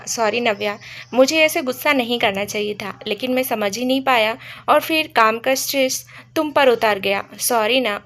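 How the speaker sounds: lightly voiced loving sorry, coaxing her; tender apology. Vivan wiping Navya's tears, gently apologising. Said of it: "बड़े प्यार से कहा".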